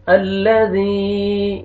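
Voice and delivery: الذی with a softly drawn zaal. Shown as a demonstration. Teacher models الذی with a soft drawn ذ. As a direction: stretch the ذ gently in الذی. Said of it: "زال کو نرمی سے ادا کریں گے".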